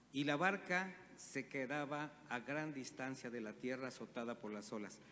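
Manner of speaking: measured Bible reading to the congregation; scripture reading. Acted. Preacher reading the storm passage aloud, measured scripture reading. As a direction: read the gospel steady and clear.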